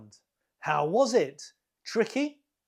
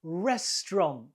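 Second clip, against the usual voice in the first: "Restaurant" as REST-ront; two syllables, first stressed. Shown as a demonstration. Teacher confirming the answer, "Restaurant" in two syllables, first stressed. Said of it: "The stress is on the first one".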